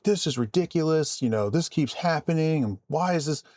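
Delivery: imitated angry caller. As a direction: mimic an irate customer complaining. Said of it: "beyond angry".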